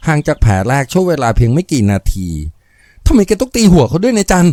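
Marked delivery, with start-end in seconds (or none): 2.7-4.5 high, slow shaken question; trembling voice. Acted. Daughter asking Jan why he struck the man, voice trembling. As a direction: ask it with your voice shaking. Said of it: "หล่อนถามเสียงสั่น".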